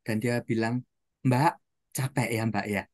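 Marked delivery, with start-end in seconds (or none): 1.2-2.8 sympathetic. Retold or imitated. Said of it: "dia sentuh tangan si mbaknya itu".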